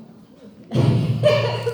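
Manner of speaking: real laugh, loud and airy; loud burst of laughter. Real, not acted. Recalls the pastor's shocking remark. (riso alto e incrédulo)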